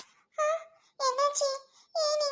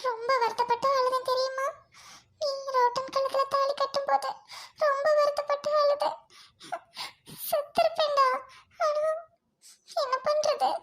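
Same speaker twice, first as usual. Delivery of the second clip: tearful confession; 3 semitones higher than usual. Acted. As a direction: voice rising to a sob. Confesses crying at his wedding.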